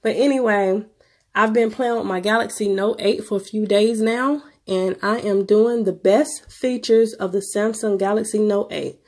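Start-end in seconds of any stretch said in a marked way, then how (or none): 0.0-2.7 sick voice. Real, not acted. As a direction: voice worn down by a cold. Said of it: "Y'all gotta excuse my voice, I'm sick".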